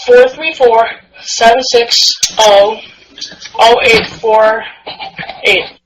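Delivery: slow careful read-back; each digit spaced out; dictating. Shown as a demonstration. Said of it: "eight, sorry".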